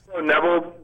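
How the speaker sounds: breaking up on a cell phone; choppy, dropping-out phone line; glitching audio. Real, not acted. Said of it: "you're breaking up there".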